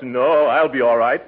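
talking through hiccups; hiccuping. Acted. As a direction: hiccup between words. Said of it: "has the hiccups".

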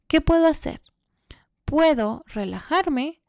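whispered self-talk. Retold or imitated. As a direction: whisper it to calm yourself down. Calming herself, inner thought.

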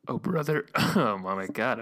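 losing voice, rough and strained; hoarse, voice giving out. Real, not acted. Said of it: "I'm losing my voice".

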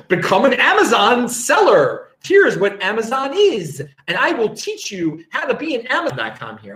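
put-on Australian pitchman voice; mock Australian ad. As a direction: imitate a weird Australian advert. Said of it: "these ads are really weird".

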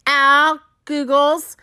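slow, drawn-out storybook exclamation; crying out. A narrator's reading. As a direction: announce it as the cat's big idea. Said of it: "The cat cried".

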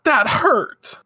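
high whiny mock complaint; hammed-up ouch; mock outrage. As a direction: whine it like a hurt anime girl. Voices Minako kicked.

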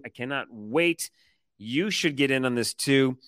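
upbeat sponsor read. Acted. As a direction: sell it like a podcast ad. Reads sponsor ad.

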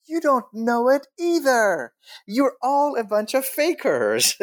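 high, scornful call-out; mocking accusation. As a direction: call their bluff. Retorting accusation in his head.

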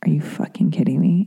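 hushed, nearly whispered deadpan disbelief. Retold or imitated. Sitting there after being laughed at, deadpan. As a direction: say it under your breath, no expression. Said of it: "like, sitting there deadpan".

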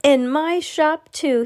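high, loud and slow yelling; proud yell. Acted. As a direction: bellow it with delight. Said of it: "he yelled".

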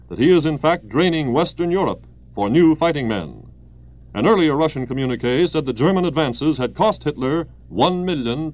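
brisk wartime radio bulletin; old newsreel. Acted. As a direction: read it like a 1940s news announcer.

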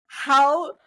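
high, loud, indignant outburst; retold outrage. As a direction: act out being furiously offended. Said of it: "got so mad".

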